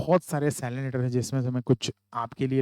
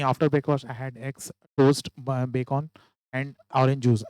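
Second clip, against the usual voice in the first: commas ignored, words run together; wrong way, no comma pauses; rushed without pauses; much slower than usual. Shown as a demonstration. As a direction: read it straight through with no stops. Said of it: "ऐसा पढ़ देते".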